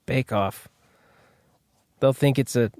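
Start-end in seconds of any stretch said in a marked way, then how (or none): 0.1-0.7 mock British. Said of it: "The Americans won't understand".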